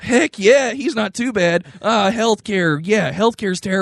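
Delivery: mildly mock-enthusiastic partisan; right-wing cheerleader. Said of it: "then you have the right saying".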